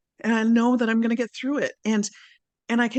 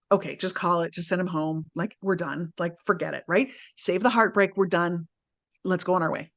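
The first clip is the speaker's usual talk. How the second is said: logical inner voice; 4 semitones lower than usual. Retold or imitated. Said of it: "the logical ego part of me was like".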